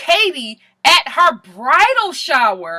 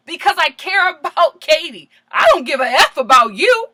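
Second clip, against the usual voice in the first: imitating a forceful retort, raised voice; retold clapback; 4 semitones higher, 5 dB louder than usual. Ariana answering Stassi in a retold quarrel, forceful. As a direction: fire back emphatically, as a retelling. Acting out a snappy comeback.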